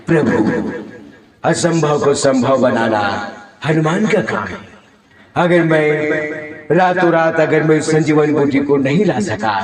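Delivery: devout epic-hero delivery; measured mythological-drama voice; Hanuman's solemn vow. Acted. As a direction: pledge it to your lord in stage-epic style. Mimicry showreel, acting Hanuman.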